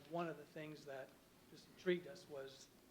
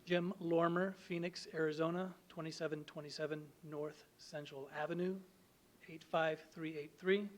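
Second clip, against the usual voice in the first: louder, closer to the mic; speaking up; 7 dB louder than usual. Real, not acted. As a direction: project clearly for the room. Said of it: "Could you speak up".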